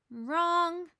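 teasing know-it-all; smug retort. A narrator's reading. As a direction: snap it back with a grin. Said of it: "Lucy says with a grin".

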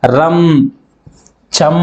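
రం and చం, each ending on a held m; closing nasal shown. Shown as a demonstration. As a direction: say రం, చం separately, humming each final m. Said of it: "అదేవిధంగా".

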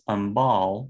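"umbal" stressed on its second syllable; "umbal" with the weight on the final syllable. Shown as a demonstration. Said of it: "we see stress on the second syllable".

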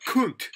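"Kunt" with a short oo vowel; high, falling "Kunt"; British reading of Kant. Shown as a demonstration. Teacher showing how they read the name, British pronunciation of "Kunt". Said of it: "Polish people read that".

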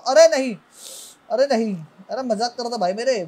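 loud, high frantic begging; panicked pleading. Real, not acted. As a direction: beg for mercy, voice jumping up. Begs after insulting the monster.

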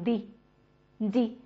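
"the" said as a light "dee"; light "dee" for "the", unstressed; unstressed dee ending. Shown as a demonstration. Teacher showing the ty ending, light unstressed dee. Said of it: "一般情况下不能重读".

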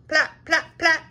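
put-on a baby trying to say a name; baby talk. A narrator's reading. Baby Urgle tries to say Splat's name, babbling.

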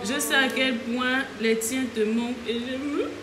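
reading through real tears until it cracks; crying. Real, not acted. Reading Tisha's card aloud, choking up with tears. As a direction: voice breaking into tears mid-sentence. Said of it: "Oh, mon piou".

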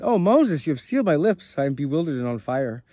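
shepherd cries out to Moses in anguish; distraught cry. Acted. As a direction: cry out as if your heart just broke. Shepherd crushed by the rebuke.

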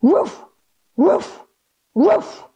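playful mock woofs, rising; dog barks. Shown as a demonstration. Yoga teacher leading kids in downward dog, playful barks. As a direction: bark like a friendly puppy. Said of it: "give me three big dog barks".

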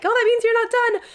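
mock know-it-all viewer. Vlogger mimicking viewers who'll say she's not done, mock high voice. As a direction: tease the viewers who think they know better. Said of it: "some of you will probably be like".

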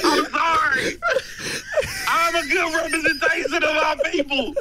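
comic tearful apology; hammed-up wounded plea; mock breakdown. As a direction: protest as if close to tears. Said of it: "we just witnessed a fucking mental breakdown".

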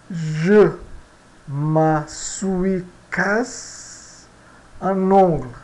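Je me suis cassé un ongle said very slowly, word by word; slow French example. Shown as a demonstration. Teacher reading the example sentence slowly to students. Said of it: "Vamos ao nosso exemplo aqui".

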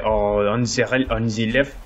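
slow, lightly faked French accent. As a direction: feel for it in fake French. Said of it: "I'll just keep doing French".

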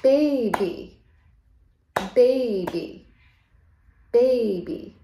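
put-on Baby drawn out into two falling beats; Baby, evenly split for counting; syllable by syllable. Shown as a demonstration. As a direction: separate bay and bee in Baby. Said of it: "how many syllables is baby".

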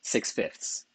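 stage whisper. Shown as a demonstration. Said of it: "That's right".

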